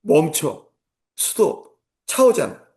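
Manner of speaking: slow, drawn-out orders, rising high at the end; a lightly acted string of driving orders; barked commands. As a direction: list the commands like a strict instructor. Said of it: "입에서 나오는 명령".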